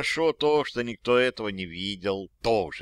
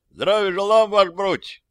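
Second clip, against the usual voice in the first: put-on higher, louder old-soldier report; soldier's greeting; 8 semitones higher, 5 dB louder than usual. Dead soldier Miron greeting his officer, higher and louder. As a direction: snap a cheerful soldier's greeting.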